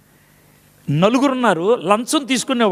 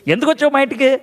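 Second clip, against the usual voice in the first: higher, demanding and accusing; grieving mother accusing the prophet, higher and indignant; 6 semitones higher, faster than usual. Acted. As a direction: confront him indignantly. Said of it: "వేస్తున్న dialogue ఇది".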